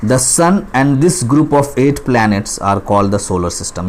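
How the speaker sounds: slow, deliberate read-aloud of a schoolbook line; textbook reading. Acted. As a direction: read it word by word for young pupils. Teacher reads textbook line slowly.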